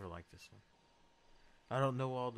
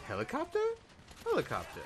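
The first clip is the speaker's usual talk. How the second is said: imitating his helicopter call. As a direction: copy the way he said "Helicopter". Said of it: "The way he said it".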